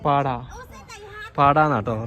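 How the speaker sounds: "പാടാ" said with a ഡ sound, no റ; "പാടാ" as locals say പാറ, the r turned into d; local pronunciation. Shown as a demonstration. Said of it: "റാ pronounce ചെയ്യില്ല ഇവര്".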